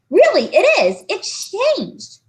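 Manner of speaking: put-on high, earnest little boy; insistent boy. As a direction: plead that it's true. John insisting.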